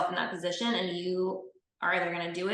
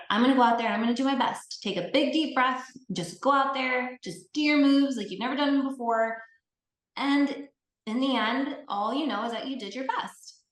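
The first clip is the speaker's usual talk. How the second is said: encouraging pep talk; 5 semitones higher, 3 dB louder than usual. Retold or imitated. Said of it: "I was like".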